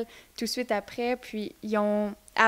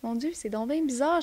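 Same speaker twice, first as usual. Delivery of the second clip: étonnement rejoué; 4 semitones higher than usual. Retold or imitated. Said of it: "puis là, j'étais comme". (petite voix aiguë, étonnée)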